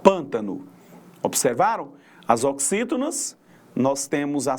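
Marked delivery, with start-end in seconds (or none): 0.0-0.7 "pântano" with weight on the first "pân"; teacher stressing the start of "pântano"; stress on antepenultimate syllable. Shown as a demonstration. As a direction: hit the opening "pân" of "pântano", lower pitched. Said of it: "na antepenúltima sílaba da palavra".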